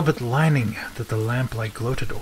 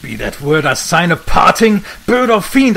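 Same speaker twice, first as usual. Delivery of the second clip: louder, higher shriek at the bird; louder terrified outcry; 3 semitones higher, 6 dB louder than usual. Acted. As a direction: leap up and scream at it. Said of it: "I shrieked upstarting".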